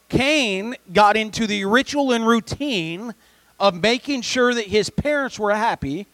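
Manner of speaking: emphatic preaching. Real, not acted. Preacher telling the congregation about Cain's offering, emphatic preaching.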